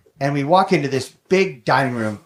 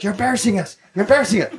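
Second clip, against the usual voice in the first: embarrassed scolding; 5 semitones higher, much faster than usual. Retold or imitated. Hushing his howling dog in public.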